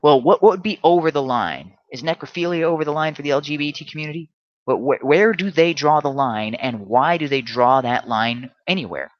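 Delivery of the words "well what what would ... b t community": louder, sarcastic imitation of critics; mock indignant quote. Streamer mocking critics he disagrees with, loud sarcastic parody. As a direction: parody their outrage with a loud, sneering "Oh". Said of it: "you cannot act as if".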